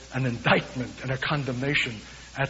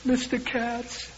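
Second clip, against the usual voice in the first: put-on slow, high, frail old woman; a hint of a frail elderly caller; thin frail voice; 7 semitones higher, 5 dB quieter, much slower than usual. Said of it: "a thin, frail voice".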